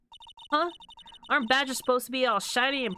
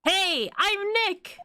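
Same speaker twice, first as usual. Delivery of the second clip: higher, slow call to the camera; calling out louder; 9 semitones higher, much slower than usual. Acted. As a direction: stretch it out and call it higher, slowly. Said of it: "Maybe I'm not saying it loud enough?".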